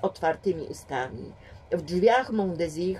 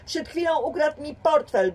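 high, louder agitated complaint; excited; 9 semitones higher, 4 dB louder than usual. A narrator's reading. James complains to the police, excited and loud. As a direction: blurt it out all worked up. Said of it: "mówił podniecony".

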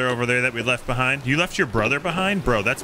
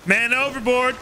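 mock alarm; 8 semitones higher than usual. Mock alarm, friend falls off.

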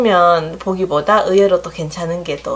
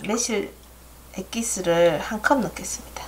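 soft aside; 5 dB quieter than usual. Real, not acted. Cooking aside while pouring.

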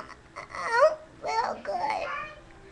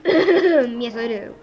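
deep voice; slower than usual. Pretend. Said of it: "your deep voice should go away".

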